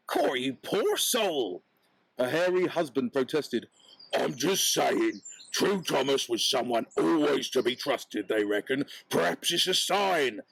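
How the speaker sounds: lightly voiced husband, pleading his case; hairy husband. Husband speaks.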